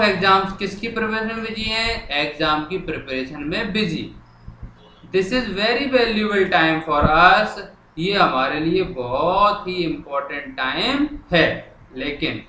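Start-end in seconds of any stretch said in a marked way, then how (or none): 5.1-7.6 very slow, word by word; slow dictation. Shown as a demonstration. Teacher writing the letter on the board, slow dictation. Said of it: "अब मैं लिखना शुरू कर रहा हूँ".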